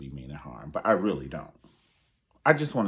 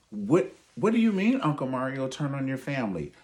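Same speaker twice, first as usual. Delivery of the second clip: higher, louder eager question; mock eager fan; 7 semitones higher, 6 dB louder than usual. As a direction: pipe up like an impatient kid. Mock audience member asks uncle.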